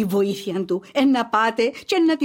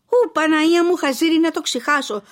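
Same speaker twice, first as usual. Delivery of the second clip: startled gasp; 5 semitones higher than usual. Acted. Mother realises she nearly forgot.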